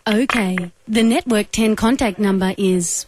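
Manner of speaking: robotic, even phone-menu voice; automated operator voice. Acted. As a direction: read it like a recorded phone system. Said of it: "use only my automated operator voice".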